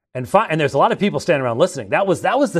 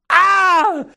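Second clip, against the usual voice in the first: high laughing cry; 8 dB louder than usual. Real, not acted. Laughing at own story.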